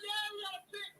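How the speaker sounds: high, loud cheer over a pick; yelling in joy at the pick; excited. Retold or imitated. Saints fan cheering the interception, excited shout. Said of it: "I'm like".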